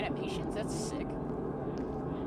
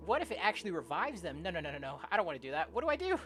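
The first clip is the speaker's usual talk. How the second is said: animated story narration; 4 dB quieter than usual. Acted. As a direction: act out the narrator's growing dilemma. Reads game story aloud.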